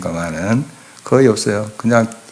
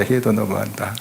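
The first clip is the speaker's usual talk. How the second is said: much softer, bitter mutter under the breath; muttered to himself; 7 dB quieter than usual. Retold or imitated. Pastor voicing Moses's inner grumble, quiet and bitter. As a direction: say it quietly as if to yourself. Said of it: "그런 심정이었던 것 같아요".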